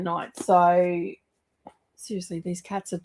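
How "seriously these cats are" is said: hushed aside, breath only; conspiratorial whisper about the cats. Real, not acted. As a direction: whisper it behind your hand. Aside about cats wrecking library.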